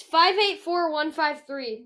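reading digits one by one. Shown as a demonstration.

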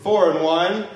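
circus barker. Retold or imitated. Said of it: "Yusef would be in a circus".

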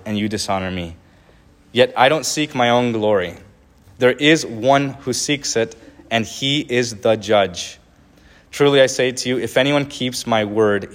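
earnest, measured Bible reading; preacher reading scripture aloud. Acted. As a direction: read the words of Jesus with weight. Reads Jesus' words aloud.

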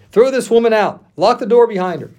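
loud, high furious order; angry shout. A narrator's reading. Amnon roaring at his servant to throw Tamar out, furious shout. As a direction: bellow at the servant to throw her out.

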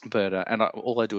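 hoarse, worn-out voice; gravelly voice. Real, not acted. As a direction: speak through a rough, tired throat. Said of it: "I apologize to everyone for my gravelly voice".

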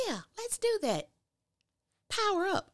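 high, goofy mock-eager voice; Calvin's eager reply. Mocking Calvin agreeing to Sabrina, high and silly. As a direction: ham up his eager yes in a silly high voice. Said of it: "And he was like".

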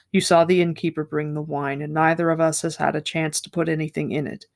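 steady audiobook-style reading of a novel; story reading. Acted. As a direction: read the passage aloud like a storyteller. Reads a second novel passage aloud.

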